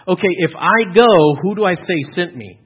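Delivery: lightly acted Moses, anxious and pleading; doubtful Moses. Moses at the burning bush asks God, anxious and pleading.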